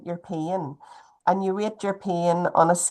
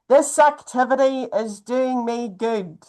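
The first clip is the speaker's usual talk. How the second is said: slow demo sentence; 5 semitones higher, 3 dB louder than usual. Shown as a demonstration. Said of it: "if you are able to say out loud".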